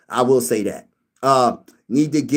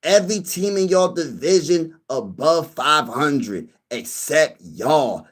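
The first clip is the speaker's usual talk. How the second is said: imitating a viewer; slower than usual. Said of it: "this is how he said it".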